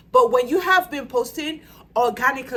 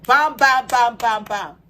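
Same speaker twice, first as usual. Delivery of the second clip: loud punchy bams; 6 dB louder, slower than usual. Real, not acted. Emphatic list punctuation.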